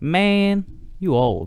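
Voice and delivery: put-on high, little playground kid voice. Retelling what kids at a playground asked: kid impression. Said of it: "That's my kid impression".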